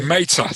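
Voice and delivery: Meta said clearly as MAY-tuh; clear pronunciation. Shown as a demonstration. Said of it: "are you saying mental or meta?".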